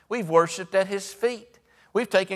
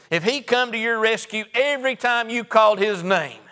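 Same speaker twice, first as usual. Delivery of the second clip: rising, insistent preacher's build, a little louder; building preaching; 2 semitones higher, 3 dB louder than usual. Acted. Preacher to congregation about unanswered prayers, building insistence. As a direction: press the point home to the church.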